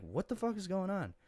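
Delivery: high, loud mock yell; retold yell. Drunk man at the police station, loud high yell.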